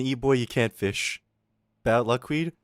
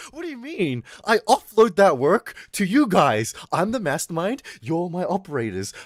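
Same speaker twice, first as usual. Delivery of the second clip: mastermind boss; 4 semitones higher, 4 dB louder than usual. Pretend. Playing criminal mastermind boss.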